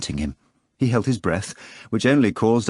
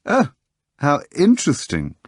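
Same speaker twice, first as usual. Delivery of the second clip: exclaiming; 6 semitones higher, 3 dB louder than usual. A narrator's reading. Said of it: "the foreigner exclaimed".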